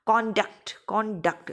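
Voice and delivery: कॉन्डक्ट with the weight landing on डक्ट; stress on second syllable. Shown as a demonstration. Teacher demonstrating second-syllable stress, stressed on the ending. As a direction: push firmly on डक्ट. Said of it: "डक्ट पे जा रहा है".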